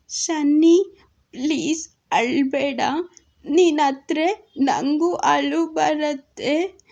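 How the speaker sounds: put-on slow, drawn-out pleading child voice; childlike pout, words stretched out; tearful child Minchu. A narrator's reading. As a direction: put on a little girl about to cry. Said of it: "ಅಂತ ಅಳೋ ಮುಖ ಮಾಡಿದ್ಲು ಮಿಂಚು".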